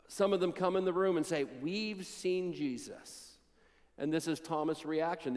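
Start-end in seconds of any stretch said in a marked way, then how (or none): 1.4-3.3 a soft, wondering report; hushed slow awe. Acted. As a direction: say it slowly and softly, in awe. Disciples report seeing Jesus.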